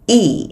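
Y as a long, tense ee. Shown as a demonstration. Teacher demonstrates the vowel to learners, tense long Y. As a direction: hold a tight ee on Y. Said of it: "hơi căng nè".

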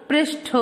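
"पृष्ठ" as "presh-tho", aspirated ending; correct pronunciation. Shown as a demonstration. Teacher answering her own question, correctly pronounced. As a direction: release the final th of "पृष्ठ" fully. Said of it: "क्या होता है बच्चों?".

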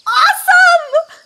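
slow, loud stretched cheer; excited shout. Acted. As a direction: cheer the performance.

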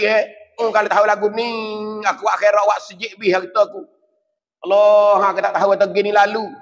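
a desperate soul crying out from the grave; pleading rich dead man. Retold or imitated.

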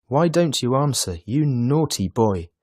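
storybook Santa losing his temper; angry cry. A narrator's reading. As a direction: demand an answer crossly. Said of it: "Santa Claus cries angrily".

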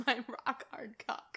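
breathy whisper. Acted. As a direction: whisper it under your breath. Whispered crude joke.

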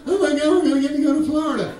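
high-pitched thrilled outburst; mock family excitement; excited. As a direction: gush about the big trip. Excited family heading to Florida.

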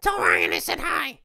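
high, loud shout from across the room; called out greeting. Acted. Friend shouting a greeting from off to the side. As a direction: call out cheerily to be heard.

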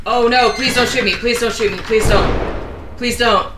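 begging loudly not to be shot; panicked surrender shout. Real, not acted. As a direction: plead frantically, hands up. Begging enemy not to shoot.

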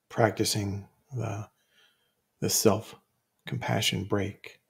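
measured phrases with long pauses; guided meditation. Real, not acted. Teacher inviting listeners to recall a difficult situation, guided meditation. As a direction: guide listeners step by step, leaving room to think.

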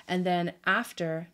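"after" said with a slipping South African accent; South African lilt on "after". Real, not acted. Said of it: "this South African accent is really hitting me".

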